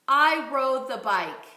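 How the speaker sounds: "I rode the bike" repeated slowly and projected; slow projected echo; slow loud repeat. Shown as a demonstration. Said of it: "Let's try this phrase".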